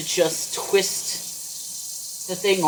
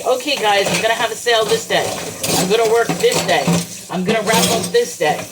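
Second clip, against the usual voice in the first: louder, rallying promise quoted from oneself; emphatic announcement; 3 semitones higher, 5 dB louder than usual. Retold or imitated. Seller retelling her sale promises to the guys, loud and emphatic. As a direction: fire off each pledge with force.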